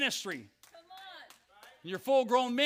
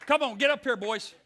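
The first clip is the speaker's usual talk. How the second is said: calling out; 6 semitones higher than usual. Real, not acted. Calling sons up front.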